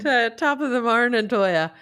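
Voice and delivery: put-on jokey stage-Irish accent; dubious Irish accent. Showing off accents to podcast friends, dubious Irish accent. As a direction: put on a shaky attempt at Irish. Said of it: "you're not known for your Irish accent".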